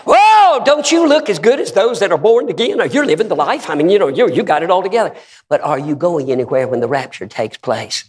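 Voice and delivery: high, loud sarcastic whoa; mock admiration. Preacher ribbing complacent Christians, high mock wonder. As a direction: tease them about looking good.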